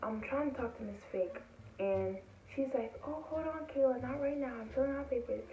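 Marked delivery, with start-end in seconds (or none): 3.1-5.4 higher-pitched mimicked brush-off; busy brush-off. Busy staffer tells Kayla not right now, retold as a brush-off.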